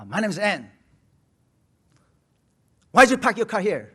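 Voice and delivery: hammed-up scolding about the parked car; old neighbor snapping at the pastor over parking; imitated angry neighbor. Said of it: "막 이제 화를 내는 거예요".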